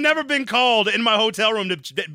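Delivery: very high, loud incredulous outburst; shouting in comic amazement; loud disbelief. Real, not acted. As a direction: challenge the claim in real astonishment. Co-host incredulous at hotel claim.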